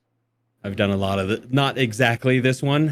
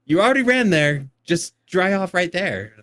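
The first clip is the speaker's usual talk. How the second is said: put-on higher, laughing disbelief at the kids; exasperated parent; 7 semitones higher than usual. Mom scolds dripping kids running back, higher and laughing. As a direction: scold with amused frustration. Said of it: "I'm like".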